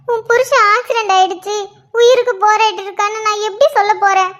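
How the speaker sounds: anguished prayer through tears; tearful pleading. Acted. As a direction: plead with God for your son-in-law, crying. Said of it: "அழுதுகிட்டு இவ்ளோ கத்தி பேசிட்டு இருக்கீங்க". (கண்ணீரோடு கடவுளிடம் கெஞ்சுவது)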